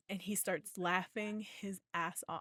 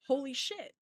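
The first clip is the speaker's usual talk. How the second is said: higher-pitched retold amazement; amazed; 6 semitones higher than usual. Mother discovering her son has aphantasia, amazed. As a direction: exclaim at a sudden discovery.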